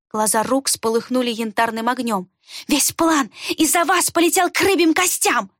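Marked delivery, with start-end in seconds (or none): 2.7-5.5 high furious cry. A narrator's reading. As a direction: blow up. Рукс rages. (в ярости, высоко)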